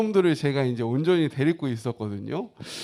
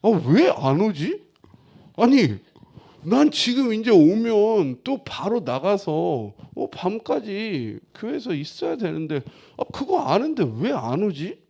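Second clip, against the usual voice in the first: raised, impatient fuming to himself; acted irritation; 4 semitones higher, 4 dB louder than usual. Husband waiting for his wife to get off work, irritated. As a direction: re-enact fretting anger, pitched up. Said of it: "그렇게 화가 나는 거예요".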